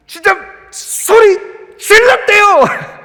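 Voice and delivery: slow and high, each word pressed; preacher stresses the real cry; emphatic. Shown as a demonstration. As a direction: drag it out with weight on 소리. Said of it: "그냥 외치는 소리가 아니에요".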